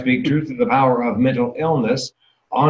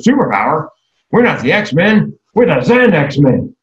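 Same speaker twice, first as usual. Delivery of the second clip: higher, slow, deadpan sister voice; slow and pointed, louder, correcting him; sister's retort; 5 semitones higher, 4 dB louder, slower than usual. Retold or imitated. Sister shoots down his superpower idea, slow and dry. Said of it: "She goes".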